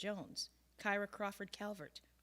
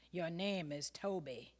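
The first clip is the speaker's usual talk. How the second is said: insisting; 5 dB louder, slower than usual. Acted. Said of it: "the overseer insisted".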